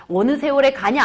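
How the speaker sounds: mildly mocking retold jibe; sarcastic. Maid scoffs at the other maid's plan, sarcastic. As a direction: jeer lightly, as a teacher acting out a servant. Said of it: "비아냥거리면서 얘기했어".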